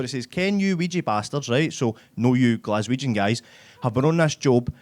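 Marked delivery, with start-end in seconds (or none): 0.3-1.5 put-on high-pitched Dundee accent, more measured; slower Dundee accent. Comedian replays the Dundee guy slower, mock Dundee accent. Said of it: "I'll do that a wee bit slower". 3.8-4.7 lightly mocked, measured Dundee accent; slower Dundee accent. Comedian translating the building-site guy, slower Dundee accent. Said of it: "I'll do that a wee bit slower".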